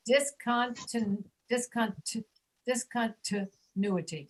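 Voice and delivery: slow build-up of "discontinuity" with "tuh" for ti; dis-con-tuh-NU-i-ty, built up in pieces; second I as schwa. Shown as a demonstration. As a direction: break off at the reduced syllable, then finish "discontinuity". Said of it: "the sound is reduced to a schwa".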